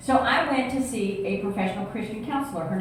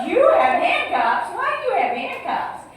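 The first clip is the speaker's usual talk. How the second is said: high, louder, laughing disbelief; shocked question; 10 semitones higher, 5 dB louder than usual. Retold or imitated. Woman hearing her husband owns handcuffs, high laughing disbelief. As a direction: gasp it out amused and shocked. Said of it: "And I said".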